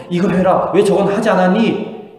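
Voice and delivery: mock nagging at a child; nagging mother. Mother scolding her daughter over chores, nagging. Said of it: "이런 잔소리를 좀 했는데".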